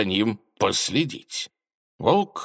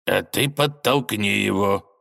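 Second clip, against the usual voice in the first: villain declaring; slower than usual. Acted. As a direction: state it with slow menace. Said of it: "заявила тень". (зловеще, медленно)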